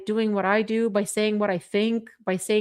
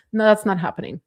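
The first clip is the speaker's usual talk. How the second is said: firm refusal; faster than usual. Shown as a demonstration. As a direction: put your foot down this time.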